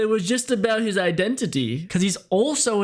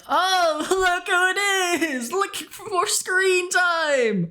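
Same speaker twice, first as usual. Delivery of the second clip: much higher, slow mocking squeal; mocking attention-seeker voice; 12 semitones higher, slower than usual. Narrator mocking the stabbed woman's bid for screen time, in a high squeal. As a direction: sneer at her for begging for screen time.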